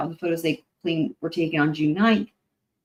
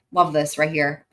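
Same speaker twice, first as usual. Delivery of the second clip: sarcastic; 3 semitones lower than usual. Pretend. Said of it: "I'm being sarcastic".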